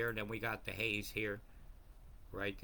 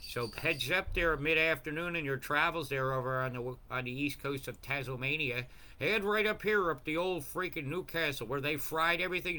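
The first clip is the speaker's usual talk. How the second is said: louder and higher, worked-up warning; a raised, fired-up weather rant; rising rant; 4 semitones higher, 4 dB louder than usual. Real, not acted. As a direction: call it out like a heated rant. Ranting warning to Newcastle.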